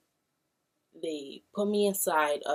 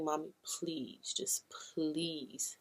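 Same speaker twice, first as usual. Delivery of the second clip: weak pleading; 6 dB quieter, much slower than usual. Retold or imitated. Sick daughter begging to be left.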